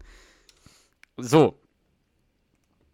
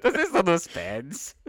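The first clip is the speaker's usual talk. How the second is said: put-on 1 dismissive girl voice; 7 semitones higher, slower than usual. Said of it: "Irgendwie, weißt du".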